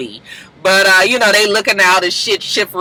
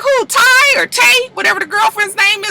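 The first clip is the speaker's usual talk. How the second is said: put-on curious girls; 12 semitones higher than usual. The women at the table asking Mimi who she brought, high voice. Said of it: "they was like".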